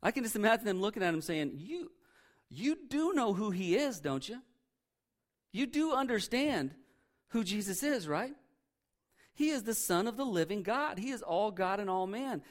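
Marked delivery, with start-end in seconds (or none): 1.6-11.0 condescending. Retold or imitated. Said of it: "that was kinda condescending".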